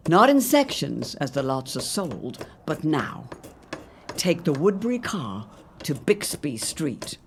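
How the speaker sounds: brisk sales pitch with pace shifts; ad read. Acted. Radio ad pitching Oak Park homes, lively salesman read. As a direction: talk up every improvement like a salesman.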